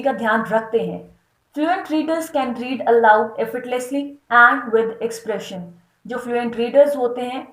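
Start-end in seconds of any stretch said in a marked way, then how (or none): 1.6-5.6 slow, deliberate reading of a definition; slow dictation read. Acted. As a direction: dictate it slowly for notes. Reads text slowly. (धीमे-धीमे परिभाषा पढ़ना)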